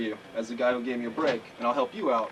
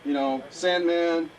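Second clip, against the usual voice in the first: ring announcer voice; 6 semitones higher, slower than usual. Shown as a demonstration. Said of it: "you saw me out there tonight".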